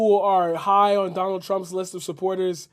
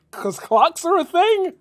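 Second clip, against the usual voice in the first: sarcastic; 7 semitones higher, slower than usual. Real, not acted. Sarcastic retort to the clip.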